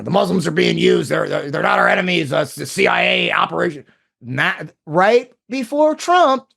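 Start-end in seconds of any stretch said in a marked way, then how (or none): 0.0-3.8 lightly imitated gruff talk-show ranter; Alex Jones impression. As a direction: mimic an insistent Texan host, understated. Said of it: "then he used to say".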